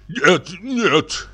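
a startled high "нет, нет"; a lightly voiced frightened manager. A narrator's reading. Manager to clerk, a startled high protest. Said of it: "испугался Кистунов".

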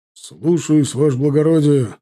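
stiff barking toy soldier. A narrator's reading. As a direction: snap a clipped drill reply. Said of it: "гаркнул тот".

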